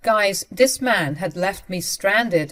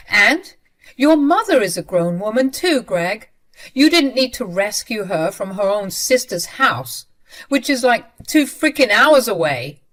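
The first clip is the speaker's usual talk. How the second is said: loud, higher angry rebuttal; angry argument; 4 semitones higher, 6 dB louder than usual. Retold or imitated. Wife arguing back at husband, loud and angry. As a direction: hit back at every point.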